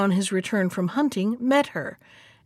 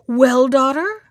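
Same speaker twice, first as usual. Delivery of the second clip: cried out; 3 semitones higher, 7 dB louder than usual. A narrator's reading. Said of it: "she cried out".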